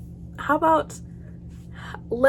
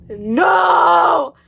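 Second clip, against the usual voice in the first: sharp high shouted no; panicked no; 6 semitones higher, 6 dB louder than usual. Real, not acted. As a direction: cry out in real fright.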